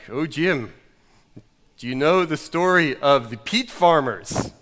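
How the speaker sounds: hammed-up Scottish storyteller, with weighty pauses; put-on Scottish pastor; old Scottish pastor. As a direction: open a parable in a bad Scottish accent. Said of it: "this old Scottish pastor said".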